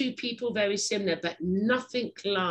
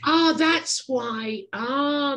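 slow, drawn-out "ah"; dawning realization; 4 semitones higher, 4 dB louder, much slower than usual. Real, not acted. Host learning guest is from New York, dawning realization. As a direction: let the penny drop, stretched out. Realises where the accent comes from.

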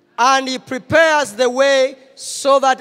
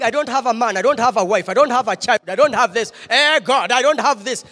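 mock grumbling, lower and softer; 4 semitones lower, 5 dB quieter than usual. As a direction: list grievances in a low, softer grumble. Preacher acts out a complainer's grumbling.

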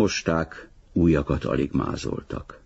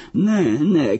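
high, louder protest; crying out; 11 semitones higher, 5 dB louder than usual. A narrator's reading. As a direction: call out in high-pitched alarm. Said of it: "kiáltotta". (magas, hangos tiltakozó kiáltás)

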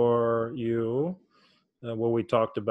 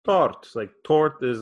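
Tort said raised and louder; raised word; 2 semitones higher, 4 dB louder than usual. Shown as a demonstration. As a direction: lift Tort a little. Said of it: "raised a little bit".

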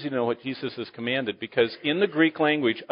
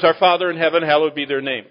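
mindless rote recital; 2 semitones higher, 5 dB louder than usual. Shown as a demonstration. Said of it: "not supposed to repeat these words".

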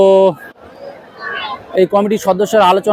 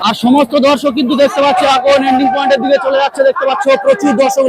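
excited commentary; 5 semitones higher than usual. Real, not acted. Race underway, commentary continues.

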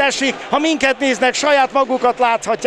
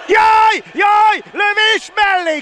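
sudden high cry of alarm; excited shout; 10 semitones higher, slower than usual. Real, not acted. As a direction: yelp as the shot goes wide. Goal chance, live commentary.

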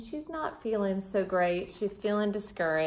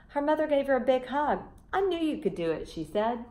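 gentle storybook reading voice; children's storybook reader; story narration. A narrator's reading. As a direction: read it like a bedtime story to kids.

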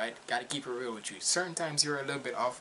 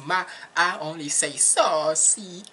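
playful protest; 4 semitones higher, 8 dB louder, slower than usual. Pretend. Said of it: "don't be stealing my words now".

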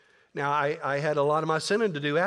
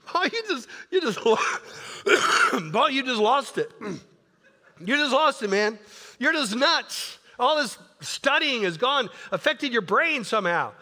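hammed-up, high-pitched incredulous outburst; mock someone appalled at a madman, pitched way up; playful high exclaiming, breaking up midway; Festus; 7 semitones higher, 4 dB louder than usual. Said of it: "I love what Festus goes".

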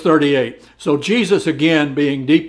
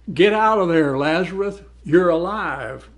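mild mock shout, slightly raised; retold shout; 3 semitones higher than usual. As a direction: call out to Lazarus as if retelling a shout. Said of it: "Jesus shouted".

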